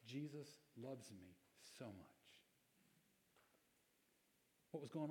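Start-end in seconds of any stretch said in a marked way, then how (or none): 0.1-2.4 slow, much softer, choked-up voice; a slow, tearful whisper of gratitude; retold crying. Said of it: "he's still crying and he goes".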